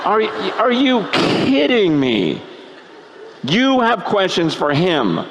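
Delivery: slow, stunned disbelief; incredulous. Acted. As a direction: stretch it out in indignant disbelief. Incredulous retort to arrogant people.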